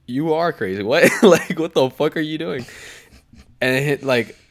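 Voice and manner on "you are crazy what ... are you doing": freaked-out yell. Retold or imitated. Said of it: "He's like".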